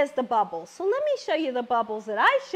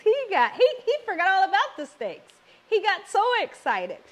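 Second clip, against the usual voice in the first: excited; 6 semitones higher, 4 dB louder than usual. Retold or imitated. Husband thrilled about pumpkin pancakes.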